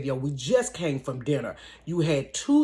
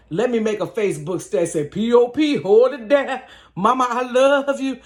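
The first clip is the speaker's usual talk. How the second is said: louder, higher, hurried goodbye status; panicked farewell; 6 semitones higher, 7 dB louder than usual. Retold or imitated. Dictating a panicked farewell Facebook status, loud and hurried. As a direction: blurt out a desperate goodbye. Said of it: "I said".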